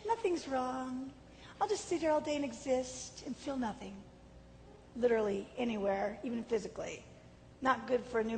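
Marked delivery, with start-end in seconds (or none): 0.0-4.0 put-on medicated hippie child. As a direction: float through it, numb and unbothered. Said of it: "made me like a hippie child".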